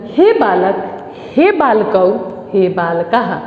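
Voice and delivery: measured vocative drill with pauses; evenly spaced classroom reading; model declension recitation. Shown as a demonstration. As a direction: recite each form separately for pupils. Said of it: "बालक शब्द रूप को कैसे पढ़ेंगे".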